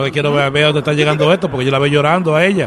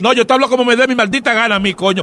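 higher-pitched, defiant yell; acted fury; 5 semitones higher than usual. Fake uncle refuses to calm down, furious. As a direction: throw the threat back at him.

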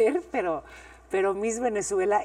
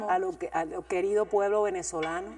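put-on Venezuelan accent; 3 semitones lower than usual. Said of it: "me gustaba el acento".

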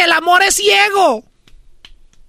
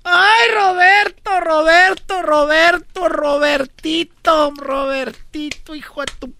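mock furious aunt; 3 semitones lower than usual. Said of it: "cuando estaba más enojada era diminutivo".

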